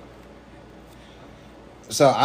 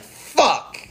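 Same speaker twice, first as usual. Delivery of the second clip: frustrated outburst; 10 semitones higher than usual. Real, not acted. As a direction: blurt it out in frustration. Frustration at missed idea.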